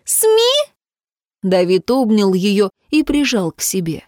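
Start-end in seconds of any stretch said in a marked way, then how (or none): 0.0-0.7 even higher scornful laughing echo; mocking laugh. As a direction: repeat it, laughing at the idea. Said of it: "рассмеялась Белла".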